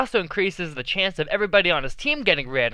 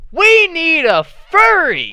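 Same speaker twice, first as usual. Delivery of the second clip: breathless hushed reveal; dramatic whisper; 10 semitones higher, 8 dB louder, much slower than usual. Acted. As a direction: whisper it slowly, like a secret.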